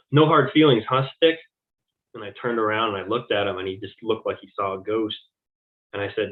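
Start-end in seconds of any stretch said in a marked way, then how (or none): 0.1-1.4 louder, higher mocking jab; taunting. Daryl taunting the CO on his way out, loud and mocking. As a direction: needle him with a raised, taunting voice.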